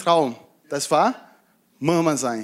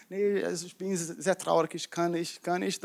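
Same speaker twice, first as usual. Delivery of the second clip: much softer, sorrowful and faltering; sad Hannah; 3 semitones lower, 8 dB quieter than usual. Acted. Hannah answers Elkanah's question, softly sorrowful. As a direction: fade the words out in grief.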